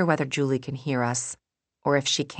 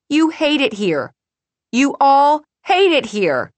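high, loud, voice cracking with tears; about to cry, voice breaking; 12 semitones higher, 10 dB louder than usual. A narrator's reading. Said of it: "Her voice breaks".

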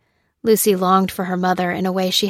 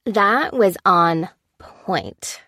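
slow, easy, satisfied man's voice; drawn-out lazy praise of the food; lightly voiced Maurice; slower than usual. Maurice praising Lucy's pasta, slow and relaxed.

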